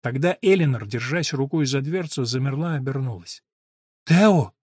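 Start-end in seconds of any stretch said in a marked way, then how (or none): 4.0-4.5 questioning. Acted. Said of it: "вопросительно проговорила она".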